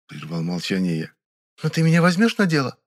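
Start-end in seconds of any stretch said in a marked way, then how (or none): 1.6-2.8 put-on raised, begging girlish voice; pleading Vera. A narrator's reading. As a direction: beg to be let in. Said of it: "попросила Верка".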